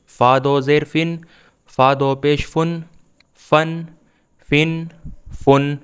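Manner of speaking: measured, evenly chanted spelling-out of syllables; teacher's steady recitation drill; Quran primer drill. Shown as a demonstration. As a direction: recite each letter and vowel name, then the syllable, pausing for learners.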